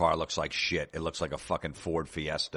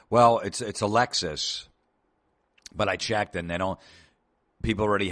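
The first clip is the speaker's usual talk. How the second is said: customer voice; 3 semitones higher, 4 dB louder than usual. Retold or imitated. Customer voice higher.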